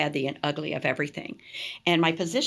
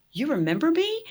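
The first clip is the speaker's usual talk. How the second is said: surprised question; 9 semitones higher, 3 dB louder than usual. Retold or imitated. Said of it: "I'm like".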